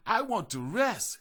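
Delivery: arguing. A narrator's reading. Gingerbread man arguing with the butterfly, high whiny protest. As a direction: protest like a tired child. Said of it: "he argued".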